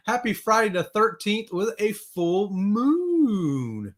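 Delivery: slow, mock-eerie drawl; spooky voice. Host teasing viewers about Friday the thirteenth, mock spooky and slow. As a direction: make it sound ominous, slowly.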